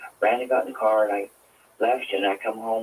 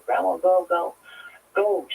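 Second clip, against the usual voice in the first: retold hysterical scream; 8 semitones higher than usual. Granddaughter screaming at grandma to flee, hysterical. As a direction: echo the child's shrieking plea, rising. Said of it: "she just was screaming and hysterical".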